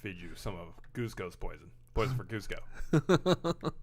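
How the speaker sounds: a touch of Kronk the henchman. Retold or imitated. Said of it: "Patrick Warburton has a great voice".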